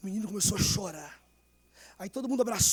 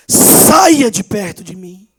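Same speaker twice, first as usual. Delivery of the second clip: stern Jesus rebuke; 17 dB louder, much slower than usual. Retold or imitated. Jesus sending the servant away, slow stern rebuke. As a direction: pronounce it as a final judgement. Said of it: "Jesus dizer assim".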